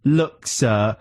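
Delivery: mock-patient shop assistant, slowly spelling it out; stroppy, sarcastic. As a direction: imitate a lightly sarcastic, stroppy cashier. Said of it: "stroppy and sarcastic".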